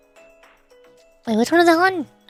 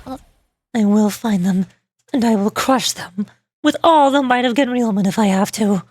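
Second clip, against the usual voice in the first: slow, deliberate indignant character voice; indignant game character; 3 dB louder, slower than usual. Acted. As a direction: vow revenge with slow, measured menace.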